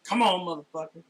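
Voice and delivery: loud roaring challenge; battle cry. Pretend. Player character yelling a challenge at the giant creature. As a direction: bellow it at the giant. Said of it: "I'm like".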